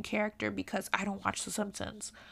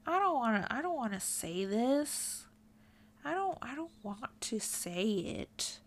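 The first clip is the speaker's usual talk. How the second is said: real squirming reluctance, trailing softer; reluctant; 5 dB quieter than usual. Real, not acted. Uncomfortable with the terms they have to use, reluctant. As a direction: balk at saying it, pitch jumping then sinking.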